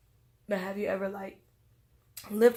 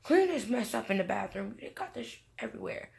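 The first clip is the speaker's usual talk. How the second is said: retold yell; 3 semitones higher, 4 dB louder than usual. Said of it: "my ex yelling at him".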